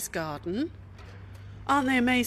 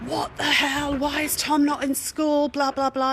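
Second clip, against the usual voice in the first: exasperated outburst; 7 semitones higher, 6 dB louder than usual. Retold or imitated. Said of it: "was like".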